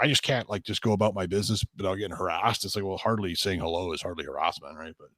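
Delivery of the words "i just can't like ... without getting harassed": mock outrage. Imitating a girl going off the deep end, mildly outraged. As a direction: imitate an exasperated complaint, lightly. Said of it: "going off the deep end".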